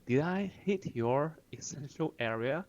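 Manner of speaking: smug question. Retold or imitated. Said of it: "击中要害了吧?".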